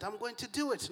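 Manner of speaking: put-on British accent. Preacher mimics Christmas-movie Mary, in a British accent. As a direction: put on a British film-heroine voice. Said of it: "in the British accent".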